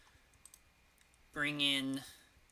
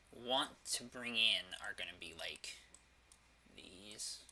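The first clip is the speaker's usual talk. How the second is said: whispering; 2 semitones lower, slower than usual. Real, not acted. Muttered aside while playing.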